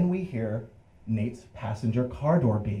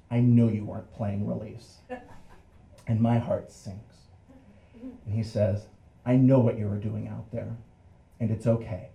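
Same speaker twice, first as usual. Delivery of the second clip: softened cop. Acted. Cop comes back to three boys, softened and understanding. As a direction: let it out gently with careful pauses. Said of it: "his face is softened".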